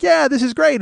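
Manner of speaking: high-pitched chirp; mock enthusiasm. A singer on the collaboration, mock high-pitched enthusiasm. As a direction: imitate her going along happily. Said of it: "then she's like".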